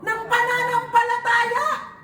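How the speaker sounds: preaching shout. Real, not acted. Preacher rallying the congregation, in a full-voiced shout. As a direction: call out faith to the hall.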